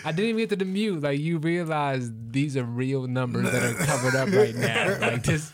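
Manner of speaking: laughing. Real, not acted. Laughing retelling the call.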